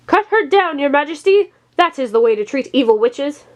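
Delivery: high pressing cry that eases off; urgent urging. A narrator's reading. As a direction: rush the king to act. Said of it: "he added".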